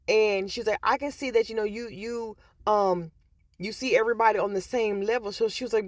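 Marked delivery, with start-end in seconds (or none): 0.8-5.3 much higher put-on coworker voice; imitating coworker. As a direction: quote her in a high light voice. Quoting coworker in high voice.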